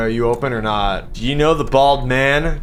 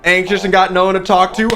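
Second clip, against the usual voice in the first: ad read; 8 semitones higher, 3 dB louder than usual. Acted. Reads hot singles ad.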